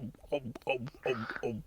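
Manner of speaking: imitated gulping. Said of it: "he's, he's like".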